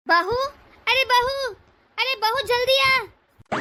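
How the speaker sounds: calls out sharply for the daughter-in-law; impatient call across the house. Acted. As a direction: summon her impatiently from another room. Mother-in-law summons daughter-in-law.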